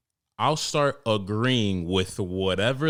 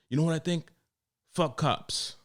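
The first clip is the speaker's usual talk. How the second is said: higher, put-on voice of a barbershop know-it-all; political customer; 7 semitones higher than usual. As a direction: lean in like sharing a hot take. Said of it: "try to start fucking political".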